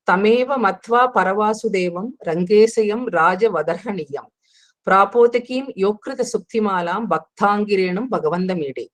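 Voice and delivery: measured recital of a devotional verse; Sanskrit verse recitation. Acted. Teacher giving the first Taniyan before explaining it, reciting.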